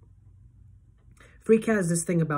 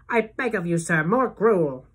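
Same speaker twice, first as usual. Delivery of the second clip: louder pleading orphan voice; Oliver Twist beggar; 3 semitones higher, 5 dB louder, slower than usual. Retold or imitated. Friend begging for more food, hammed-up orphan plea. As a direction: beg like a Dickens orphan. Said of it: "he always goes".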